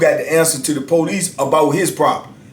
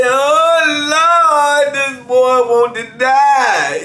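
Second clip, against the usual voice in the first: amused disbelief; 10 semitones higher, much slower than usual. Real, not acted. Narrator laughing at the threat.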